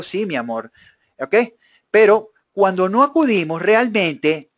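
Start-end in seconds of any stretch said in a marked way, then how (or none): 0.0-0.7 meek yes dear. Retold or imitated. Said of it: "siempre digo".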